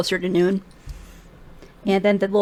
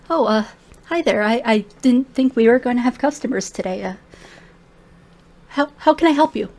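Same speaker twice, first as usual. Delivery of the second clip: awkward gnome; 3 semitones higher than usual. Acted. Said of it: "awkward smile".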